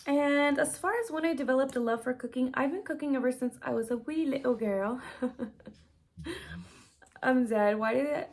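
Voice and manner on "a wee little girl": accidental lilt into an Irish accent. Real, not acted. Telling when cooking began, hint of Irish accent. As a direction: slip briefly into light Irish. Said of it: "say that in Irish accent".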